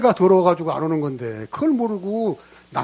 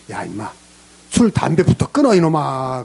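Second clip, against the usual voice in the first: mock gruff rebuke; 3 semitones lower than usual. God's retold rebuke.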